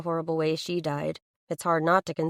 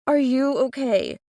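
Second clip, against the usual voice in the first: anxious call; 6 semitones higher, 5 dB louder than usual. Acted. Rushing to found aunt.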